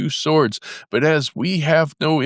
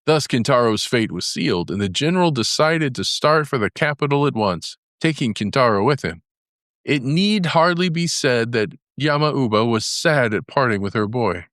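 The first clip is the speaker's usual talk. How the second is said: ordinary delivery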